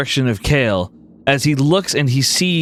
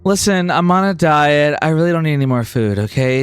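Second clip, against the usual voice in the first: lightly voiced haughty Bloom, brisk; dismissive diva; 2 semitones higher than usual. Bloom turning down offered food, mildly dismissive.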